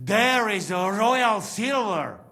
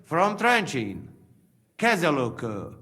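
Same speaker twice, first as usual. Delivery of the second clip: put-on thick Slovak accent, plain delivery; 5 semitones lower than usual. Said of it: "that accent".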